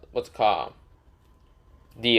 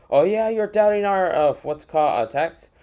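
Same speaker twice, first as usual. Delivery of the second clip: higher and louder, sneering thug; mocking high thug voice; 8 semitones higher, 5 dB louder than usual. Cloud Ninjas jeering at the tall stranger, high mocking voice. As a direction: jeer at him like a cocky punk.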